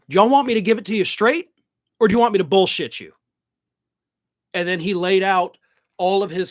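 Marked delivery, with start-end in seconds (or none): 0.1-3.1 imitating a serious straight-talker, louder and fast; mock-earnest challenge to the crowd, punched out quickly; Carville getting serious. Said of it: "gets real serious for a moment, gets down low like this".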